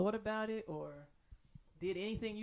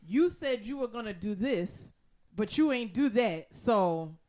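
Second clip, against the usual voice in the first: much louder mock scolding; angry staff; 9 dB louder, slower than usual. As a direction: tell him off like fed-up cleaning staff. Quoting furious Hoarders staff.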